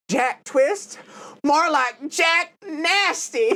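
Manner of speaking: slow drawn-out sassy quip. Retold or imitated. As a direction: drag out Nasty with sass. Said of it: "and she's like".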